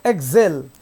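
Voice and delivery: एक्सेल stretched to 'ex-HALE' length; loud, low एक्सेल with a long AY; drawn-out vowel. Shown as a demonstration. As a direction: hold the second vowel of एक्सेल. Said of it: "तो खींच रहे थोड़ा सा".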